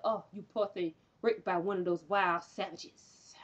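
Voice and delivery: soft, low, slow fake sympathy; mock pity. Imitating white men consoling a woman, mock pitying. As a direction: coo it with put-on concern.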